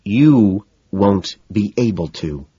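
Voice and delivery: slow, held-in menace. Acted. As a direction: keep it tight and deliberate. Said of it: "her voice tense and lowered".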